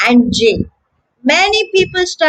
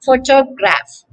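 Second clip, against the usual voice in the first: PHO-to-graph; "photograph" with the weight up front on PHO; first-syllable stress. Shown as a demonstration. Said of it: "The stress is on the first syllable".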